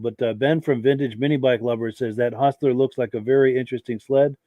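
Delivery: hoarse from a cold; losing voice, croaky with a cold. Real, not acted. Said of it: "I'm losing my voice because I've got a cold".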